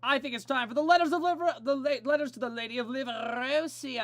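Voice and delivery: high, fast, loud show intro; excited announcement. Real, not acted. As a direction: announce it with a big grin. Announcing the letters segment.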